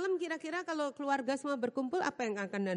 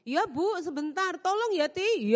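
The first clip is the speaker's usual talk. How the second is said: maid's offhand reply; 7 semitones higher, 4 dB louder, slower than usual. Retold or imitated. Maid answers employer.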